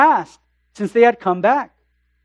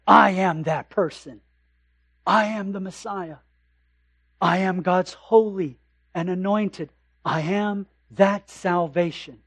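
hushed solemn claim; 3 semitones lower, 5 dB quieter than usual. Acted. Preacher voices Jesus' claim.

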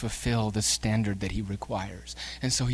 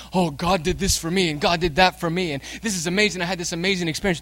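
higher, gushing churchgoer's testimony; imitated excited testimony; 5 semitones higher, 4 dB louder than usual. Preacher imitates believers giving testimonies, excited and gushing. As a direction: rattle off blessings with mock-testimonial excitement. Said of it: "Don't we hear testimonies like that?".

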